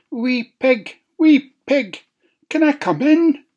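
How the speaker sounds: high, sly wolf calling. A narrator's reading. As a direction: coax the pig like a wolf. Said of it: "wolf calls at window".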